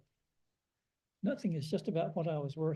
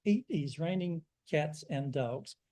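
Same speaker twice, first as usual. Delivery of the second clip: put-on slow, light Turkish accent; a hint of a Turkish accent; slower than usual. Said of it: "he says in his Turkish accent".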